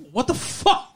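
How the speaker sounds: high, amused what-the-heck; laughing through a baffled question; laughing disbelief. Retold or imitated. Mock viewer reaction, laughing.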